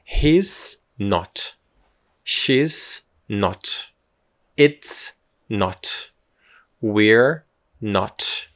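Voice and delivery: teacher modelling He's not, She's not with falling tune; model pronunciation. Shown as a demonstration. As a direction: read each He's not clearly for students to repeat. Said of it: "A gente lê como".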